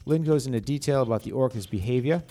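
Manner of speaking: slipping into a New England accent. Real, not acted. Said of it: "That's my New England accent".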